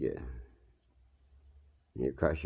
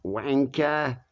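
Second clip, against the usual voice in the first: yelled insult; 7 semitones higher, 3 dB louder than usual. Retold or imitated. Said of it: "this guy yelled out".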